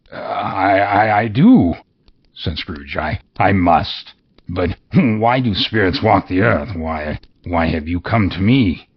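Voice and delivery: nervous stammering Scrooge; stammering fear. Acted. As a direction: stumble over the words in fright.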